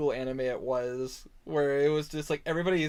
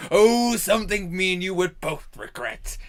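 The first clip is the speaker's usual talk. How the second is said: Frieza; 3 semitones higher, 3 dB louder than usual. Retold or imitated. Villain replying that he hired an idiot, theatrical. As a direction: swoop in grandly, then sink into exasperation. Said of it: "in the speaker's audition for T F S to play Frieza".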